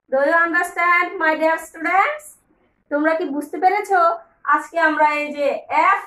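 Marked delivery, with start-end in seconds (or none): 0.1-2.2 very slow, drawn-out question; slow sing-song check. Shown as a demonstration. Teacher checking students' understanding, slow sing-song. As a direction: stretch out each word to the students. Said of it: "teacher check".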